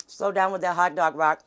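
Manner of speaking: talking with a mouthful; words around a bite of food; mouth full. Real, not acted. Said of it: "I'm trying not to talk with my mouth full".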